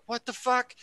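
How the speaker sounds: high-pitched disbelief, played for laughs; startled pilot. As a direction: squeak it out like a baffled pilot. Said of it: "they are like".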